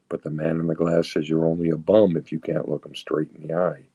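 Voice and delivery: reciting a poem to the room, steady and deliberate; poem recital. Acted. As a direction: speaker recites the mirror poem to the meeting, in measured recital.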